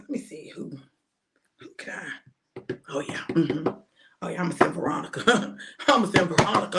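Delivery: a lightly voiced God, hushed then pleased; God choosing her. Voicing God picking Doctor V for battles, hushed. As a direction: muse aloud as God deciding, then sure. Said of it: "He said".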